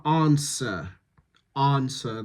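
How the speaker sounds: "answer" with a long open broad A; bath vowel on answer. Shown as a demonstration. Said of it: "that's Bath set".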